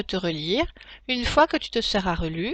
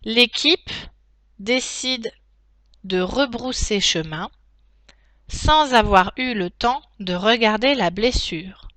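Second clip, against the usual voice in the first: slow dictation, each chunk spaced; dictating; slower than usual. Shown as a demonstration. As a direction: dictate slowly with punctuation spoken. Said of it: "passer à la dictée en elle-même".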